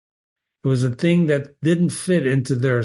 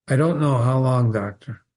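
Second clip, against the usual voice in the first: emotionless monotone; 2 semitones lower than usual. Acted. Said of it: "The mono-, monotone again".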